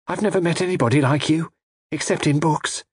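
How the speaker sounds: high, wondering heroine voice; admiring young lady. A narrator's reading.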